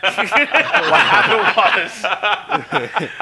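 loud, high, laugh-choked words; cracking up while talking. Real, not acted. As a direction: try to explain through real laughter. Cracking up at own story.

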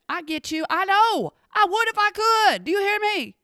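high-pitched mock exasperation; exasperated comeback. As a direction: answer back high and defensive. Answers back the judging women.

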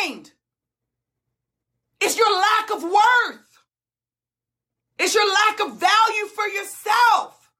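impassioned, tearful plea, pitched high; real crying. Real, not acted. Coach tearfully telling clients they hold themselves back, crying and fired up. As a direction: plead through tears, breaking off between phrases. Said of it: "I apologize for crying".

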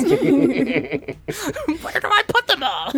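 high, slow, laughing panic; overwhelmed boy with twenty-six horses; flustered stable boy. Acted. Stable boy swamped by horses, high laughing fluster. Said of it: "the stable boy who doesn't know what to do".

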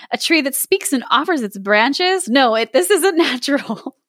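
put-on a cautious boy refusing firmly; wary boy. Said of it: "said Marin".

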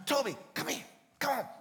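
high, loud call across the dunes; shouting for the dog. Retold or imitated. Owner shouting for his lost dog across the dunes, high loud call. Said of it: "And I'm shouting".

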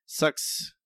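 breathy whispered "Sucks"; hushed disgusted "Sucks"; whispered verdict. Real, not acted.

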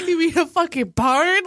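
laughing disbelief. Real, not acted. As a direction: laugh through the question. Mocking cow house.

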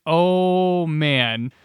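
drawn-out sinking realisation; mock dismay. Teller realising he mixed up names, mock dismay. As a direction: let it sink as the blunder dawns. Retold realisation of his blunder.

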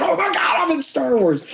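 very high-pitched mock squeal of fan joy; letting it out. Actor finally lets out his feelings after a wrap, high giddy outburst. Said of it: "Now go ahead and let it out".

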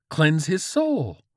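slow, high, loud chant; fervent command. Acted. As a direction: cry it out with zeal. George works into holy frenzy.

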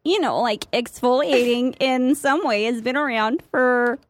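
put-on lightly done Midwestern mom accent; a hint of a Midwestern mom reading history. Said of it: "in your Midwestern voice".

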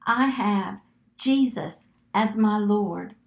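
slow, deliberate declaration; measured, repeat-after-me delivery; slow decree. Shown as a demonstration. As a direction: declare it phrase by phrase. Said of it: "say it slow enough".

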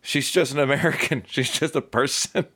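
high, half-laughing imitation of a naive viewer; playful put-on viewer voice; mock viewer quote. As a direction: lightly mimic a surprised fan. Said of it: "watch a show and go".

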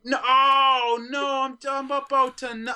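high, loud wail of dismay; mock climax panic. Man with a sex doll losing control, panicked climax. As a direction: cry out as if it's happening too soon. Acts out climaxing too soon.

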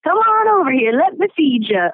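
mock doting cook. Kelly imitating Missy feeding the boys, mock doting call. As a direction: lure them in to be fed, lightly mocking. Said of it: "that sounded more like Keith".

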